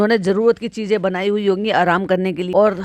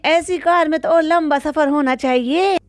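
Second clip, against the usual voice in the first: imitating Ammi; 6 semitones higher than usual. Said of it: "अम्मी कह रही हैं".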